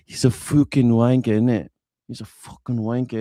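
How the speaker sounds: mock British bloke; wanker voice. Streamer doing his wanker voice for the chat. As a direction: put on a cheeky Cockney insult. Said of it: "The wanker voice".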